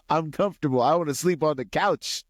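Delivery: put-on laughing kid whine. Boy refusing to leave the couch, laughing whine. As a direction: whine it like a five-year-old who wants the couch. Five-year-old protesting bedtime order.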